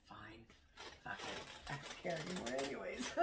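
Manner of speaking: low, soft, resigned whisper; tired old dog voice. Pretend. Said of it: "He's like".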